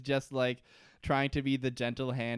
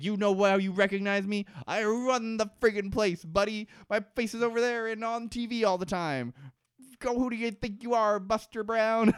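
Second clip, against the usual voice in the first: higher, brash mock indignation; mock indignant Hurley; 6 semitones higher than usual. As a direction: puff up and brag like an offended Hurley. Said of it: "And Hurley's like".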